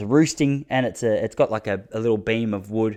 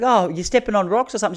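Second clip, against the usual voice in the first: brother-in-law; 9 semitones higher than usual. Retold or imitated. Brother-in-law quoted asking Joy.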